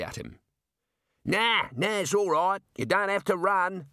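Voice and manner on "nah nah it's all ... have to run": high-pitched calling out; shouted reassurance. A narrator's reading. Jailer calls to fleeing Rincewind, shouting reassurance. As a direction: call across to someone, voice pitched up. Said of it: "he shouted".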